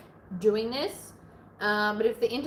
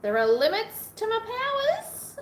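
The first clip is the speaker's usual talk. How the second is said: dramatic superhero voice; 12 semitones higher, 5 dB louder than usual. Pretend. Joking about brain's limits.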